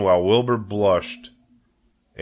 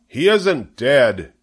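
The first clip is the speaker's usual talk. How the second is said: slow, louder holler; 4 semitones higher, 4 dB louder, much slower than usual. A narrator's reading. Zuckerman hollering back at the loudspeaker, insisting. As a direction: holler it across the ring. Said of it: "hollered Zuckerman".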